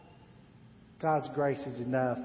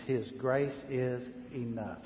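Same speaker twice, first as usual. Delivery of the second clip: softer, slow His grace is enough; soft declaration; 3 semitones lower, 6 dB quieter than usual. Shown as a demonstration. Pastor quietly giving the phrase to take home. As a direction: say it gently, stressing grace. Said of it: "Say that with me".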